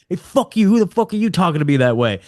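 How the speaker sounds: hammed-up affronted comeback; mock indignation. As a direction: imitate an offended owner cussing back. Offended owner cussing back at caller.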